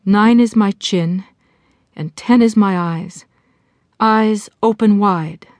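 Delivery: measured recitation of a counting rhyme; mantra recitation. Acted. Jessie saying her relaxation mantra aloud, measured recitation. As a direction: recite it line by line, pausing between. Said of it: "She began the mantra again".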